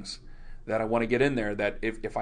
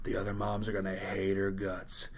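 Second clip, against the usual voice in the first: hushed gossip; 6 semitones lower, 11 dB quieter than usual. Retold or imitated. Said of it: "She goes".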